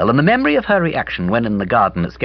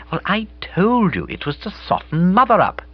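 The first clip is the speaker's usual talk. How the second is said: put-on higher, brighter girl's voice; Bobby's voice; 11 semitones higher than usual. A narrator's reading. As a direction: play Bobby, lively and breezy.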